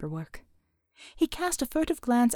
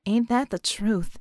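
drawl; slower than usual. Acted. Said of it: "she drawled".

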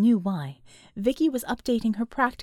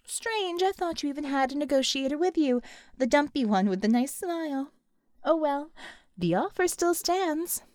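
higher, airy taunt; mock musing; 4 semitones higher than usual. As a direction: muse aloud, pitched up, to needle them. Villain mockingly muses to captive.

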